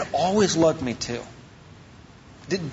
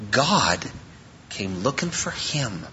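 hushed reverence; 8 semitones lower, 7 dB quieter, slower than usual. Real, not acted. Climactic point about God.

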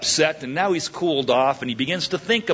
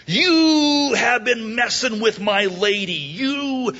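mild mock anger; 7 semitones higher, slower than usual. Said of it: "He's angry".

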